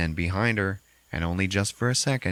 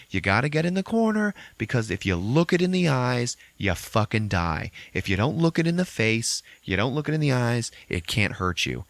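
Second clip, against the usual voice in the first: higher, urgent hushed explanation; urgent warning; 4 semitones higher than usual. Retold or imitated. James warning Lisa in the corner, urgent scared voice. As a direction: explain the rule fast and scared. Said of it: "And he's like".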